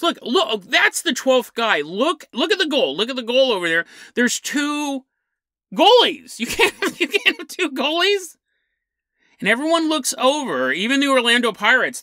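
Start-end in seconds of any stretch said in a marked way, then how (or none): 0.0-6.4 mock upset. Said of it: "the referee starts to get kind of upset". 6.4-8.4 laughing quote. Retold or imitated. Laughs while quoting the upset referee.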